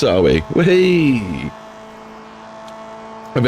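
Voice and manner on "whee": excited cheer. Real, not acted. Celebrating likes count.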